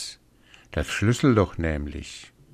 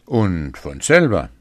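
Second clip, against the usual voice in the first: louder, insistent giant; emphatic; 5 dB louder than usual. Acted. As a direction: boom out the claim. Giant boasting to wife.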